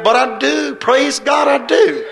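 loud, high, defiant cry of praise; a preacher shouting his defiance. Real, not acted. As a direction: shout it back at the critics.

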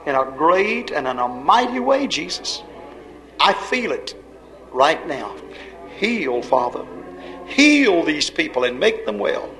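hushed intercession with sudden fervent surges; earnest healing prayer. Real, not acted. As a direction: plead with God in measured, heartfelt phrases.

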